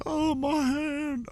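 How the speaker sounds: very high, slow mocking whine; mock whining. Mocking the squad mate who broke his hand, whiny and high. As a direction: stretch it out like a crybaby nursing his hand. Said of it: "sitting there like".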